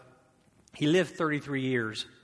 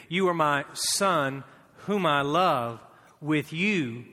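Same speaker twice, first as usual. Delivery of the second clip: scripture read together; 4 dB louder, slower than usual. Shown as a demonstration. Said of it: "read it with me".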